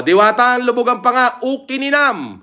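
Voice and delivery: high-pitched playful curse on request; mock Ilocano cursing. Shown as a demonstration. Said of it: "Ilocano nga mura man". (pabirong pagmumura sa Ilokano, mataas ang boses)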